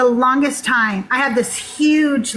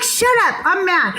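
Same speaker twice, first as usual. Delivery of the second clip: higher-pitched playful protest; mock-mad retort; 5 semitones higher than usual. Woman answering her laughing partner's teasing, mock mad. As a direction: snap back in mock anger, pitched up. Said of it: "I was so mad".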